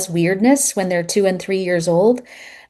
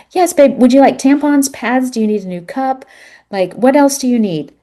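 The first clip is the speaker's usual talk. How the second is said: higher and louder, eager to help; bright supportive husband, higher pitched; eager dad voice; 4 semitones higher, 4 dB louder than usual. Retold or imitated. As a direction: jump in keen to fetch anything she needs. Dad eagerly offering supplies.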